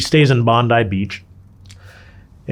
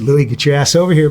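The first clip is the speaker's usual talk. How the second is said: freaking out; 6 semitones higher, 7 dB louder than usual. Retold or imitated. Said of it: "I'm fucking freaking out".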